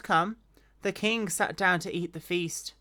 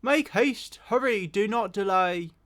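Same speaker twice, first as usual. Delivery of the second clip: calling out. Acted. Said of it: "Jonathan cried out after the lad".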